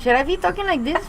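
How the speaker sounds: high-pitched, hammed-up Latina accent; exaggerated Latina accent. Singer teases host about sounding Latina, exaggerated high Latina accent. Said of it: "I don't sound like I'm Latina".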